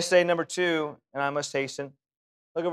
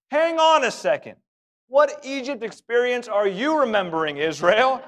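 incredulous interruption; 6 semitones higher, 3 dB louder than usual. Real, not acted. Preacher interrupts the scripture reading.

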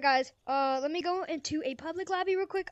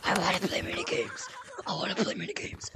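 laughing; 12 semitones lower, 5 dB quieter than usual. Real, not acted. Laughing while staying in character.

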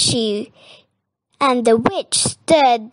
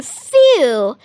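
relieved exhale, a little louder; relieved phew; 3 semitones higher, 5 dB louder than usual. Acted. Dog after the rescue, mildly relieved. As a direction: let out a mild sigh of relief.

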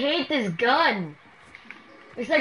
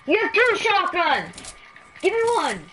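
panicking gamer; 3 semitones higher than usual. Real, not acted. Begging teammate for a shotgun mid-fight.

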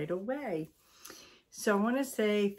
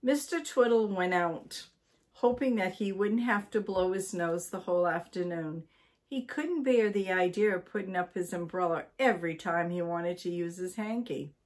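lively read-aloud storytelling voice; story narration. A narrator's reading. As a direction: read it to listeners like a bedtime book.

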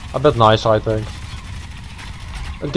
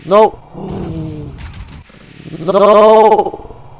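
frustrated no; 7 semitones higher than usual. Real, not acted. Getting shot in game.

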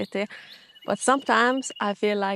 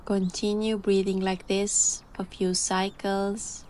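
calm voice. Real, not acted. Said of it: "I'm gonna dive into my calm voice now".

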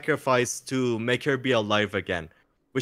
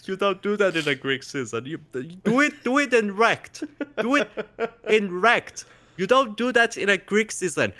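laughing rant; 5 semitones higher than usual. Real, not acted. Ranting about the silly storyline.

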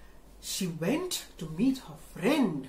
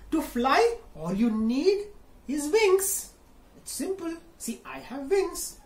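parrot voice; 7 semitones higher than usual. Acted. Parrot explains.

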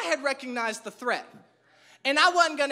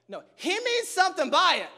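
firm retort; 4 semitones higher than usual. Retold or imitated. Insisting to wife, raised voice.

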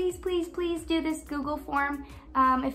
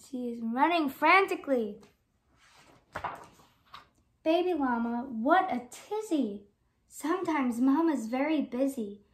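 lively picture-book read-aloud; gentle sing-song storybook reading; reading to children. Acted. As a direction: read it like storytime for little kids.

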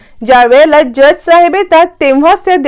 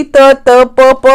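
stammering; much slower than usual. Retold or imitated. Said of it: "हळू आवाजात बोलत असते".

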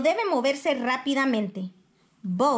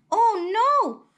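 dismayed oh no; 9 semitones higher, 4 dB louder than usual. A narrator's reading. Mother counts, one missing.

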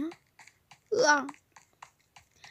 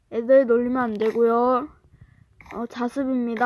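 teacher voice; 5 semitones lower, 3 dB louder than usual. Acted. 선생님 역할.

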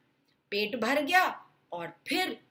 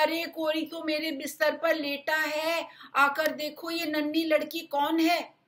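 a higher, little cub voice; small baby bear voice; 6 semitones higher, 3 dB louder than usual. Acted. Baby bear calls the others to the girl. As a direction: call out like a tiny excited cub. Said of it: "नन्हे भालू की नन्ही सी आवाज".

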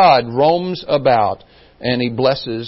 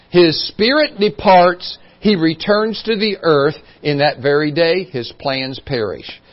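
scripture reading; 2 semitones higher, 4 dB louder than usual. Acted. Reads scripture aloud.

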